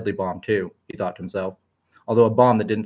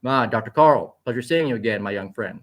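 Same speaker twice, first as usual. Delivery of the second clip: kindly. Acted. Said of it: "said Onyx, kindly and mature".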